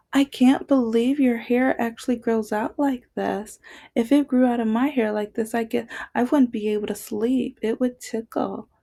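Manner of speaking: hint of a nosy mother marveling at hair; imitating his mother. Quoting boyfriend's racist mother.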